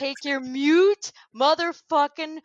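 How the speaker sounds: mock tirade piling up insults; Michael Rapaport. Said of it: "just losing his shit".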